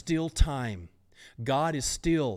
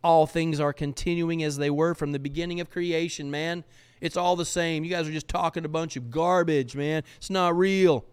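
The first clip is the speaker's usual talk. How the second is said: higher and louder, brushing it all off; dismissive scoffer; 5 semitones higher, 5 dB louder than usual. Acted. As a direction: wave it away as garbage, up high. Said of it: "they say".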